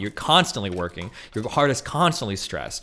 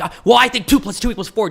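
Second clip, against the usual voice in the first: high, loud sing-song mimic of the opponent; mock debater; 10 semitones higher, 8 dB louder than usual. Streamer mimicking a debate opponent, high mocking voice. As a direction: parody his reasonable tone, way up high. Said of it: "he's like".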